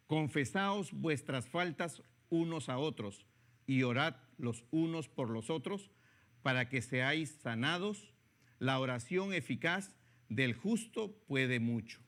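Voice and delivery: slow, measured reading of the verse; scripture reading. Acted. Preacher reading James to the congregation, slow and solemn. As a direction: read the Bible verse slowly and solemnly. Reads scripture passage aloud.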